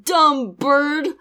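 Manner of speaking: half-hearted imitated shout; retold yell. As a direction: call it out in a mild mock holler. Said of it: "and then he yells at it".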